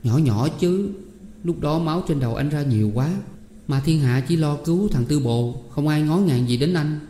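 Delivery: lightly voiced pained young woman; distressed Tám Én. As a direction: hush him, then recount with understated hurt. Tám Én hushes, keeps recounting. (giọng cô gái xót xa)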